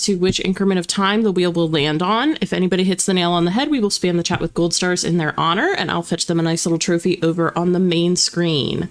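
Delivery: rapid, rattled-off stream host patter; auctioneer spiel. Real, not acted. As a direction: rattle off the routine like a practised spiel. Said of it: "You do sound like an auctioneer".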